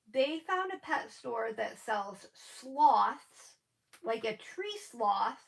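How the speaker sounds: slow, lisping on the s sounds; talking with no dentures in; lisp without dentures. Real, not acted. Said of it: "my lisp is a little pronounced".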